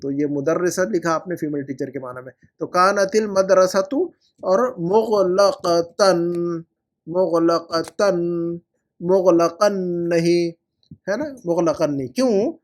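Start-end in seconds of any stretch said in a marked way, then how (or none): 2.6-10.5 मुगलकतन drawn out very slowly; very slow teacher model; very slow drill. Shown as a demonstration. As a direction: spell out मुगलकतन syllable by syllable. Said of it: "teacher models correct form".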